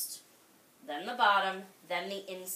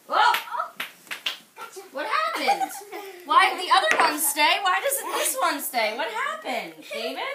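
much higher and louder, laughing surprise; surprised; 8 semitones higher, 8 dB louder than usual. Real, not acted. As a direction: act amazed the ball won't stay. The sphere rolls away, surprise.

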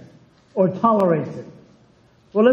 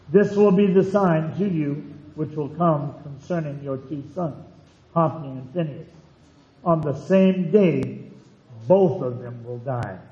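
solemn scripture reading. Acted. Reads scripture aloud to congregation.

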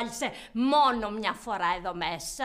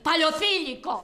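higher-pitched burst of contempt; angry insult; 4 semitones higher, 4 dB louder, slower than usual. Acted. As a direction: fling it out as a raised, scornful insult. Boss insults the employee.

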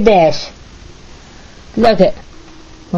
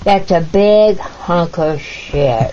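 foul mouthed granny; slower than usual. Real, not acted. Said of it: "now once more".

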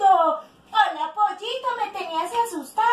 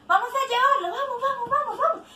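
playful hurrying; 5 semitones higher, faster than usual. Pretend. Hurries children to take duck home.

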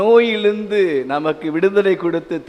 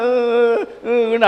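imitated hiccuping sobs; a headmaster mimicking a child's hiccuping sob; mock sobbing; 6 semitones higher than usual. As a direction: gulp out little sobs. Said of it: "தேம்பி தேம்பி அழு".

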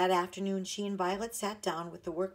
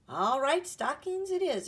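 holding back a laugh; 9 semitones higher, 6 dB louder than usual. A narrator's reading. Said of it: "trying not to laugh".

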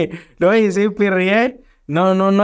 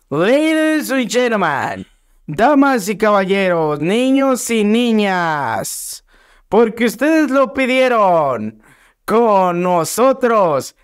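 ringmaster; slower than usual. Acted. Host introduces guest like announcer.

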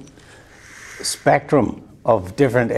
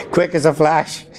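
said through a laugh; laughing at his own story; 5 semitones higher than usual. Real, not acted. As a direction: still chuckling as he says it.

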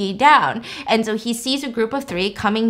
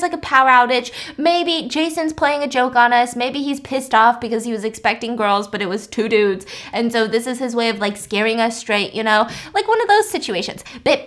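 frantic reassurance; 2 semitones higher than usual. Acted. Dan calming panicking girlfriend.

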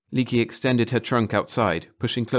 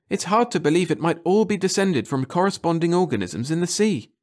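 lightly voiced, rising wonder; a hint of a marvelling professor; Leakey, eager scientist; 7 semitones higher than usual. Narrator voicing Leakey to Finbold, lightly awed.

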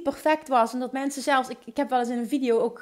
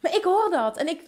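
ordinary talk, nothing marked

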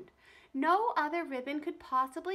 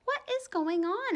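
higher, louder, startled; alarmed mother; 10 semitones higher, 6 dB louder than usual. A narrator's reading. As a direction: demand to know, alarmed. Mother asks sharply.

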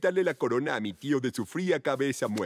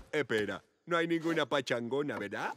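worried hush; 4 semitones lower, 5 dB quieter than usual. Acted. Prince checking with Maurice if the party is fake, quiet worried. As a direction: lower and softer, suddenly unsure.

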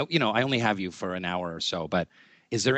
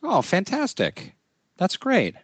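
excited; 11 semitones higher, 3 dB louder than usual. Real, not acted. Delighted reaction to news.

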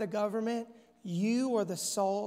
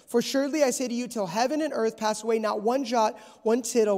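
louder, emphatic Bible reading; preaching scripture reading; 2 semitones higher, 5 dB louder than usual. Acted. Preacher reading Jesus's words to the church, emphatic proclamation. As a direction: proclaim the verse to the congregation.

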